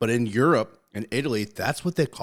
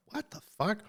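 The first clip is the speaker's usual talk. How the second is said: mock surprise; 12 semitones higher, 5 dB quieter than usual. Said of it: "I'm like".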